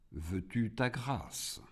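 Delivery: soft, slow divine question; quietly majestic; God's voice. A narrator's reading. God addressing Iblis, very soft.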